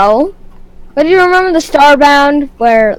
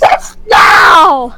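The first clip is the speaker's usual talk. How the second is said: slow, loud booming shout; 3 semitones higher, 4 dB louder, much slower than usual. Acted. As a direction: boom it out like a mysterious voice. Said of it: "Hello, mysterious voice".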